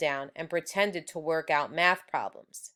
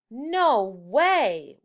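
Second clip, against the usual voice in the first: louder, higher gasp of disbelief; shocked class; 5 semitones higher, 6 dB louder than usual. Acted. Whole class reacting to the teacher's fact, shocked. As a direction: kids blurting out in shock. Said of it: "went through the class".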